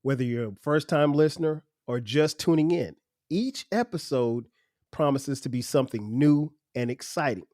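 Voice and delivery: a touch of polished announcer read; podcast intro read. Acted. Host welcoming listeners to his show, smooth promo read. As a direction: sell the show to new listeners.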